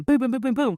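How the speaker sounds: quick run of vocal thuds; imitated door banging. A rapper bangs on her door again, imitated pounding. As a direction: mimic a fist pounding a door. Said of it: "And he bangs again".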